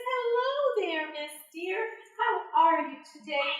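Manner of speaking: Anansi voice. Acted. Anansi greets deer, story voice.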